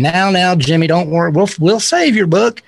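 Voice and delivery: imitated soothing Texan with a Houston accent. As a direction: reassure in a hint of Houston twang. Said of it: "That's my best Houston accent".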